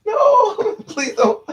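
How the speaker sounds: high, loud laughing plea; retold child's frightened begging, laughing; mock pleading. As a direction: beg him not to, in a hammed-up squeal. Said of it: "I was like".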